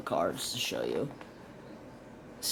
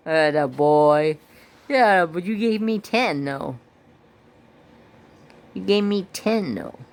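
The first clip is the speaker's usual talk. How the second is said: much higher and louder pet voice; 4 semitones higher, 5 dB louder than usual. Real, not acted. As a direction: call to the dog excitedly. Praising his dog.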